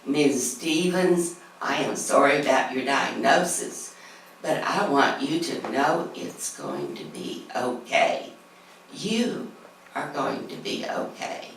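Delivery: a light slow Southern country drawl, unhurried; mildly imitated rural Southern drawl, easing into each word; gentle Southern drawl, reassuring and slow. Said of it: "in his low country drawl".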